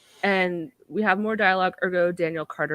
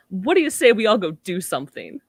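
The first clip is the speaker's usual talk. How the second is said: playful alien voice; 5 dB louder than usual. Acted. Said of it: "the voice, still disembodied".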